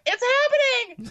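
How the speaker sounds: hammed-up thrilled exclamation; retold excitement. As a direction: burst out with mock-dramatic excitement. Retells excited message to friend.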